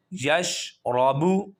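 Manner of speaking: Yash رابو with thick full ر; heavy ra. Shown as a demonstration. Teacher showing heavy ra in reading. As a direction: read Yash رابو slowly, ر heavy. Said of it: "را کو موٹا کریں گے".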